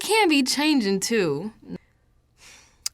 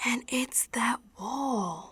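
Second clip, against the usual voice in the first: slow, softer crying whisper; tearful whisper; 6 dB quieter, slower than usual. Acted. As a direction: barely hold back tears. Despair over the wall.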